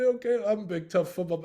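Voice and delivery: loud, hammed-up tough jock; mock tough guy. Teller mocking his own tough-guy image, loud and hammed-up. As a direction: puff up like a big football player, mockingly. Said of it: "I say".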